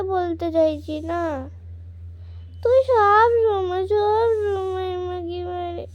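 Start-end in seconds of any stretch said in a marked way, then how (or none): 2.6-5.9 slow, tearful wail, louder at the start; crying complaint. Acted. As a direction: sob out the accusation.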